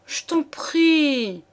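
slow, breathy whispered plea; pleading whisper. Acted. A young woman begs her lover, whispering slowly. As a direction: whisper it close to his ear, begging. Juliette begs, hanging on his neck.

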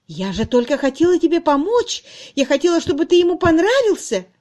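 plead, wounded; a jilted woman begging to be understood; hurt pleading. A narrator's reading.

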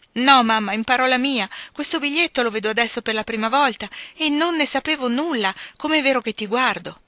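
emphatic plea to be believed; earnest protestation. A narrator's reading. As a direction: insist earnestly on your innocence. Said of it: "con tale accento di verità e di serietà".

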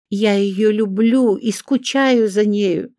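high, slow, hammed-up lament; tragic cry. A narrator's reading. Olga theatrically lamenting her daughter, tragic and slow. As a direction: overplay the tragic mother. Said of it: "трагически заламывая руки, вскричала".

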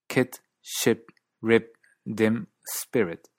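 KIT, SHIP, RIP, DIM, SPIRIT with standard British lax 'ih'; standard British accent. Shown as a demonstration. Teacher comparing four accents, standard British short I. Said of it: "el inglés británico estándar".

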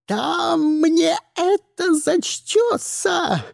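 slow, high fanatical scream. A narrator's reading. Madam Rodriguez threatening with a syringe, high slow scream. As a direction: shriek it like a zealot at the end. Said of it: "заорала она".

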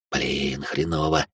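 soft, low muttered whisper; quiet whisper. A narrator's reading. Second intruder whispers over the crib: hushed. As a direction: keep it barely audible. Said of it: "тихо прошептал другой".

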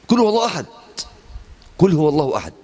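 lightly voiced chanted Quran recitation, high at the start; imitating a moving recitation. Preacher recalls Sheikh Adel's recitation, mild chanted imitation. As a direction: echo the sheikh's recitation that made the mosque weep. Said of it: "وقرأ بسورة الإخلاص".

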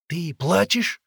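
high, loud startled question; startled exclamation. A narrator's reading. Boy realising the girl is crying, startled. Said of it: "воскликнул он".

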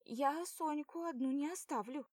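put-on girl's voice refusing to leave her friend; girl insisting. A narrator's reading. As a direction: refuse firmly.

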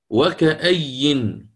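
وكأي stretched very slowly; slow demonstration. Shown as a demonstration. Teacher shows how the word was formed, very slowly. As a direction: spell out وكأي syllable by syllable. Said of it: "فصارت".

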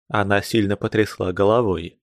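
ordinary delivery

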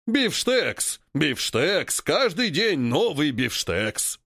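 slow honking ape chant. Acted. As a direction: honk each word, gloating. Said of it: "гогочет вожак". (гогочущий голос вожака)

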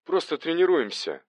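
high, halting, winded answer; puffed, breaking up the phrase; breathing heavily. A narrator's reading. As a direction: pause for breath after the first word. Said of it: "тяжело дыша отозвался Арсений".

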